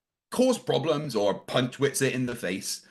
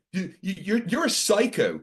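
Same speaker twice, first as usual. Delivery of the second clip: higher-pitched, stammering mock indignation; imitating triggered outburst; 6 semitones higher than usual. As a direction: act out his flustered, triggered comeback. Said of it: "he started getting really triggered".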